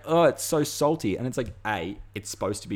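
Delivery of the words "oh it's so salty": higher, louder mock whine of disgust; mocking the American. Mocking the American who ate Vegemite wrong, higher and louder. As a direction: ham up his shock at the salt. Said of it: "and he's like".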